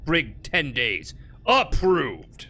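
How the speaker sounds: slow, gruff verdict from a 1940s officer. Pretend. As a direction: stamp it slowly like a gruff army clerk. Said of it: "my nineteen forties gruff voice".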